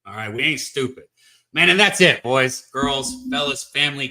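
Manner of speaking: playful Southern country accent, lightly done. Shown as a demonstration. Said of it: "I can put on a little country accent".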